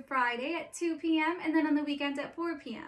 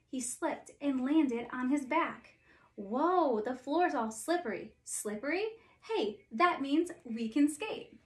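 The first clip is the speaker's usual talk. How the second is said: story narration. A narrator's reading. Reads Frozen story aloud.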